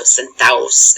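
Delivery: "centaus" said sen-TA-os, vowels running together; "centaus" with a gliding a-o ending; D dropped. Shown as a demonstration. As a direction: say "centaus" as Spanish sentaos, without a d. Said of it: "is what it sounds like".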